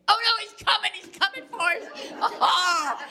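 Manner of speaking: high loud panicked cry, slowing down; terrified. Retold or imitated. Wife hearing footsteps in the dark, terrified high cry. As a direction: wail that the intruder is coming. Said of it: "And I think".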